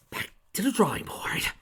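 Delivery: whispered resigned aside. Real, not acted. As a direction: whisper it to yourself. Reader gives up, aside.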